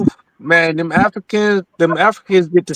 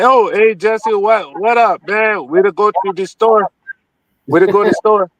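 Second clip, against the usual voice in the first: mock African accent. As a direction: tease them with a casual African accent. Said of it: "I talk to you with the African accent".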